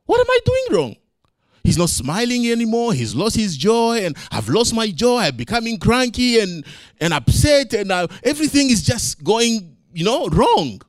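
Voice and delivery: a touch of despair over the lesson; father thinking aloud about failing his son; frustrated inner voice. Retold or imitated. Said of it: "And then I thought".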